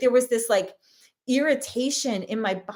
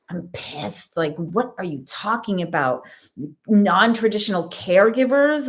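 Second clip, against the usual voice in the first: contained outrage, building louder on the last words; retold pissed-off reaction; 4 dB louder than usual. Mother silently fuming at the librarian's words, pissed-off but contained. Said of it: "I was, like, so pissed".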